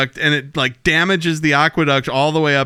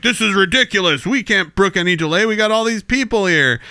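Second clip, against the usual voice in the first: indignant envoy; 5 semitones higher than usual. Retold or imitated. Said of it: "the guy's like".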